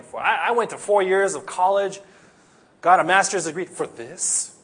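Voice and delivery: hammed-up griping worker, loud opening Oh; whiny complainer. Preacher mocks complaining foreign workers, whiny voice.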